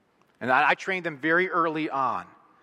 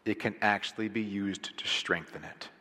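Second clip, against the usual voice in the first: whisper; 6 semitones lower, 6 dB quieter than usual. Real, not acted. Intimate sermon point.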